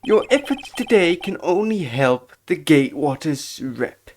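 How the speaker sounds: lightly voiced deferential hotel servant; be eager to please, stretching the last words; obsequious bellboy. Bellboy reassuring a guest, obsequious character voice.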